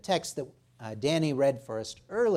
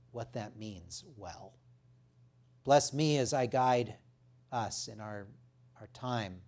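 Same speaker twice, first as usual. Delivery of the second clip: prayer. Real, not acted. Preacher praying before reading the text, reverent prayer. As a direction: open firmly, then settle into hushed, reverent petition.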